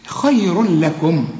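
slow "خير لكم" merging the tanween into the l, unhummed; measured recitation, doubled l without nasality; full idgham. Shown as a demonstration. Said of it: "بعده لام او راء ما تغنش".

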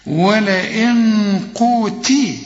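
ولئن قوتي slow, the ta with kasra; slow recitation. Shown as a demonstration. Teacher models the line, slow recitation. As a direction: recite it slowly with the nun hidden. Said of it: "التاء مكسورة".

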